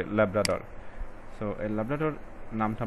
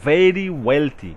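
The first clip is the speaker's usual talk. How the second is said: very wealthy drawn out slowly, very hit loud; stress on very wealthy; 4 semitones higher, 8 dB louder, much slower than usual. Shown as a demonstration. Teacher showing students the stress words, punching very wealthy. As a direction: lean on very wealthy, each word slow and louder. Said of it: "adjective অথবা adverb, এগুলো হচ্ছে stress word".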